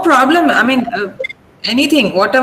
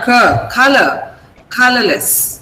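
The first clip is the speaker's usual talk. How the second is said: "Color" and "Colorless" with the stress on COL; strong COL, light endings in "Color, Colorless"; stress on first syllable. Shown as a demonstration. Teacher correcting a student, first-syllable stress on "Color, Colorless". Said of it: "mark the stress here".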